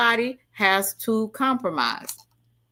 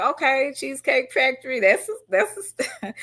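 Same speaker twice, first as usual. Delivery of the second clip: high, pleased put-on voice about Cheesecake Factory; mock delighted girl; 5 semitones higher than usual. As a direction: play the happy date, voice pitched up. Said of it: "I'm like".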